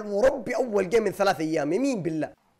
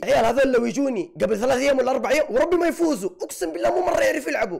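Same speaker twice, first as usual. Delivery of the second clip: laughing rant; 5 semitones higher than usual. Real, not acted. Laughing rant about opponents.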